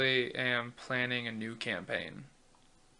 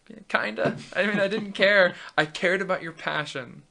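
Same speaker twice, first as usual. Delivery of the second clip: higher, louder animated retelling; excited; 6 semitones higher, 8 dB louder than usual. Retold or imitated. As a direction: punch it out playfully, a bit loud. Retells answer to car-loving buddy.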